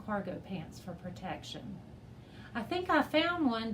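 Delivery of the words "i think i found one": higher, eager call; excited shout of discovery. A narrator's reading. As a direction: call out a find. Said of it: "Dev called".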